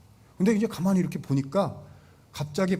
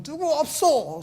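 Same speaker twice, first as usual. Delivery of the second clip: much higher, slow alarmed shout; shout for help; 12 semitones higher, slower than usual. Shown as a demonstration. Boaz startled in the night yelling for help, a high slow shout. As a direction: call out so the whole house hears. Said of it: "소리부터 질러야 되는 거예요".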